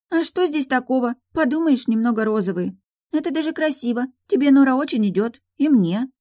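put-on high childlike girl voice; little girl's voice. A narrator's reading. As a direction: play the pouting little daughter. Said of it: "Грустно вздохнула она". (высокий детский голос девочки)

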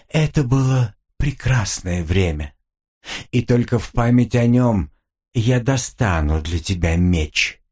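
a touch of sorrow in a demon voice; quiet sadness. Acted. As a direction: demon softly wistful, slowing down. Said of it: "В голосе демона послышалась тихая грусть". (тихая грусть в голосе демона)

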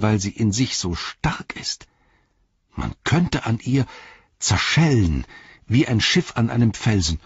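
lightly voiced servant thinking aloud; animated, earnest explaining; earnest Sam. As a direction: reason it out with feeling.

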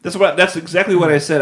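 thrilled, loud and high; excited shout. Real, not acted. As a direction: burst out with excitement. Agrees excitedly, high five.

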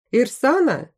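lightly voiced call to his wife. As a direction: call the wife from across the yard. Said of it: "крикнул он".

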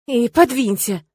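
drowsy, grumbling mumble; sleepy grumble. Acted. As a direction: grumble it half asleep. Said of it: "Ворчу сонно".

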